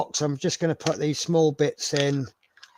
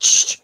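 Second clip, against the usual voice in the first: retold shush; 6 dB louder than usual. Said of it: "and I went".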